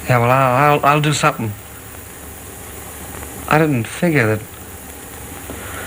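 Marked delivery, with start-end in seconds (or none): 3.5-5.9 quiet dazed. Acted. Dazed realisation.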